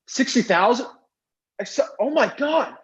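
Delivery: barely containing a thrilled shriek; inner excitement. Retold or imitated. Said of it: "I was screaming inside".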